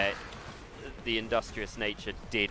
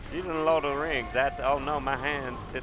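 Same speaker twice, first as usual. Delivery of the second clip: put-on loosely held Southern belle accent. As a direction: struggle to keep up a Southern accent. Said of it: "that is really hard to maintain".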